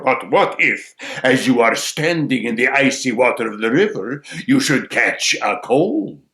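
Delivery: loud crow, lingering on the threat; needling crow. Acted. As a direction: pose the problem as the crow. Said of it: "says the crow".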